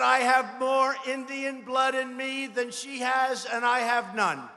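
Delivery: rally shout. Retold or imitated. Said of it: "Remember when I said".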